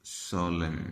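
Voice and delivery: "सोलेम" ending on m; silent final N. Shown as a demonstration. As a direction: say "सोलेम" for solemn, leaving off the n. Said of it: "एन silent हो जाएगा".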